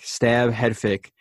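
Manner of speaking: "stab, head fake" said slowly, each beat separated; walk through "stab, head fake" step by step, slowly; slow, spelled-out breakdown. Shown as a demonstration.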